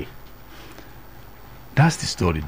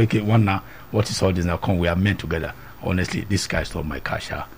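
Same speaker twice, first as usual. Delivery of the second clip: softer, lower, man-to-man confiding; confiding hush; 5 semitones lower, 6 dB quieter than usual. Retold or imitated. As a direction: draw him close and lower the voice.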